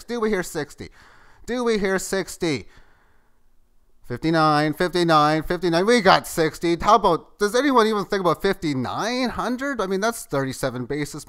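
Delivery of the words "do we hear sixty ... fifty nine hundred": loud, high auctioneer calling bids. Pretend. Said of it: "I'm gonna feel like an auctioneer".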